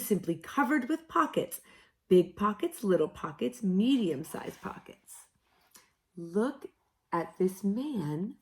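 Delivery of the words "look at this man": high, soft whisper. A narrator's reading. Narrator whispering about the pocket man. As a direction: whisper it in wonder.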